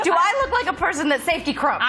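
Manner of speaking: laughing. Real, not acted. Laughing at crumping joke.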